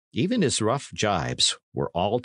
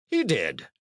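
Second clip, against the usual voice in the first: sharp; 4 semitones higher than usual. A narrator's reading. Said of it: "cried the knight very sharply".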